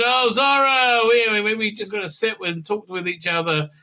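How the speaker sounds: mock cheery.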